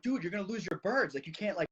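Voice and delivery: imitating a worried kid's objection; alarmed protest. Kid warning the falconer he'll lose his birds, alarmed protest.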